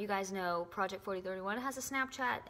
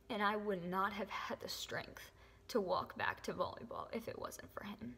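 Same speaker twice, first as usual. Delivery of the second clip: emotional whisper. Real, not acted. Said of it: "I'm so sorry that I got so emotional".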